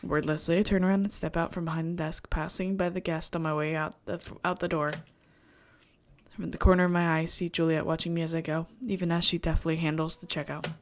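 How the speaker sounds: measured first-person narration; storyteller reading at an even pitch; story narration. A narrator's reading. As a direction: read the inner monologue aloud evenly. Reads the game's story aloud.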